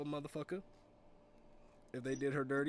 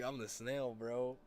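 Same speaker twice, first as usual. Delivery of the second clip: lightly imitated buddy's accent; Chavez's way of talking; slower than usual. Buddy naming himself the snail, lightly imitated accent. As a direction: give a hint of the friend's accent. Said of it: "that's how Chavez talks too".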